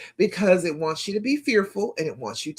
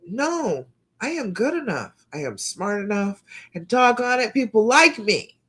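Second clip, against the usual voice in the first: affirmation demo; 4 semitones higher than usual. Shown as a demonstration. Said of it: "you come back to your affirmation".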